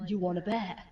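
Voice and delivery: laughing through the dare; laughing challenge. Retold or imitated. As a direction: giggle out the dare. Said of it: "I'm like".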